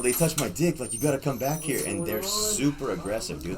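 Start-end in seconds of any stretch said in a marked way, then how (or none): 0.0-1.8 high, loud amazed announcement; imitating a thrilled friend; retold excited outburst. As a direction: blurt it out like astonishing news. Repeats friend's excited report.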